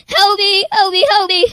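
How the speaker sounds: pleading through tears; crying for help. Retold or imitated. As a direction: sob out a plea for help. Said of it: "and I, I cried".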